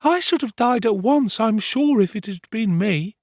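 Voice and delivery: high, urgent character voice; excitable housemaid. Acted. Housemaid imagining herself in the danger, high and excitable. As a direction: pipe up high, all aflutter.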